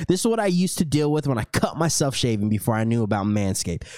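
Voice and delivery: lightly voiced sponsor pitch; ad read. Host reads the Manscaped sponsor spot to listeners, light ad-read voice. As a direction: sell it like a commercial, lightly.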